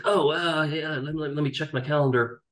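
hammed-up cool reply to a job offer; mock casual. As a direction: pretend to be in no hurry. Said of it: "Dramatic pause".

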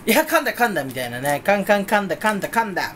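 imitated showbiz teasing banter; 芸能界のノリ. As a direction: playfully pile on about a slip. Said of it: "芸能界のノリあるじゃないですか". (芸人っぽく軽くはやし立てる)

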